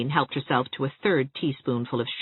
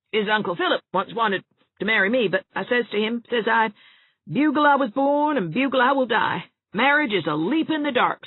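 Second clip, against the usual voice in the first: put-on higher, fretful voice of a doom-saying old woman; gloomy old cousin; 9 semitones higher, 3 dB louder than usual. A narrator's reading. Ernestine speaking again.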